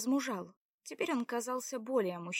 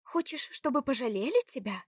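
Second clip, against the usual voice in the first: narrow-eyed challenge; 4 semitones higher, 4 dB louder than usual. A narrator's reading. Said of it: "спросила, прищурившись, Заряна".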